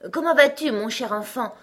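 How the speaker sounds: high, hearty greeting, easing off; affectionate greeting. A narrator's reading. Messenger greets his friend with an arm round him, affectionate. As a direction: greet fondly, pitch lifted at first. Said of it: "passant son bras affectueusement".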